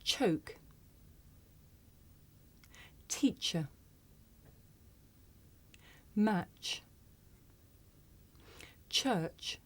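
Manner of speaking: Choke. Teacher. Match. Church. said softly with a breathy ch; soft careful teacher model. Shown as a demonstration. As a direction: model each word for learners to repeat. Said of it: "Listen and repeat after me".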